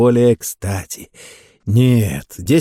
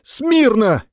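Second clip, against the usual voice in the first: higher, pushed-up shout; louder command; 12 semitones higher than usual. Acted. Sergeant retries the command at the captain's demand, higher. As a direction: try to sound commanding. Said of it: "Не так, громче!".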